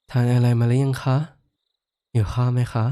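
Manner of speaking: a giant carefully tries sweet polite endings; trying polite speech. Shown as a demonstration. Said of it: "ลองให้ข้าพูดดูไหม".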